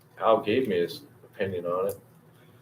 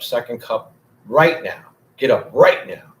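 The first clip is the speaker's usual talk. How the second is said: louder and louder, last words almost shouted; mock wake-up demand; 2 semitones higher, 6 dB louder than usual. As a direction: build to a half-joking yell.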